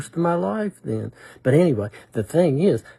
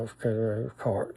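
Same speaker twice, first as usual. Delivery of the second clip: quiet, murmured repetition to himself under his breath; under breath again; 3 semitones lower, 8 dB quieter, faster than usual. Retold or imitated. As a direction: keep muttering the words softly. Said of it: "under my breath".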